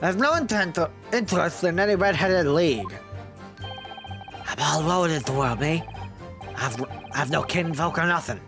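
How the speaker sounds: whiny peddler pleading innocence; gossip voice. Acted. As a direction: play the shifty peddler. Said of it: "your gossip voice".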